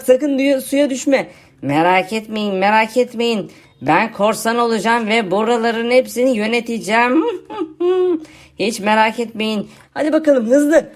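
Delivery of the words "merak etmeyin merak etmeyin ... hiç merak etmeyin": low, boastful zombie pirate; a lightly voiced zombie bragging; zombie friend voice. Zombie answering his friend, lightly voiced boastful pirate zombie.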